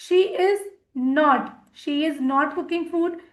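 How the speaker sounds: slow, careful dictation; slow model sentence. Shown as a demonstration. Teacher slowly models the negative sentence for students. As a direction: lean on each word for learners. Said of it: "teacher models negative sentence".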